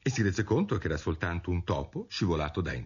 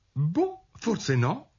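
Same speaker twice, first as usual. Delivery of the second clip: high, placating Alice voice; appeasing little concession; conciliatory; 12 semitones higher, much slower than usual. A narrator's reading. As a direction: back down gently in a raised pitch. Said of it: "disse Alice con voce conciliante".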